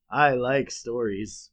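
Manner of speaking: slow, simple, dopey voice; slow dopey Homer. Retold or imitated. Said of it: "And Homer goes".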